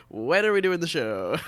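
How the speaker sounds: mock-eager question, laughing through it; laughing, pressing a friend to commit to the show; laughing retold question. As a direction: push the question while laughing. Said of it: "And I was like".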